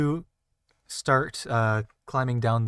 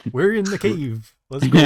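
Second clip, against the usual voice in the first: excited; 6 semitones higher, 10 dB louder than usual. Pretend. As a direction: cheer it like an eager adventurer. Playfully voicing the excited party.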